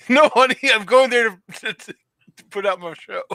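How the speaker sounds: hammed-up protest to a wife, breaking into laughs; mock husband's excuse. Husband explaining himself to his wife, mock-earnest and laughing. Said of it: "try to explain that to your wife".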